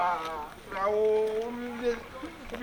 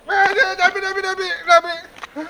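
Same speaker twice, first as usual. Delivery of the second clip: high protest; 9 semitones higher, 3 dB louder, slower than usual. Acted. Refusing, repeated no.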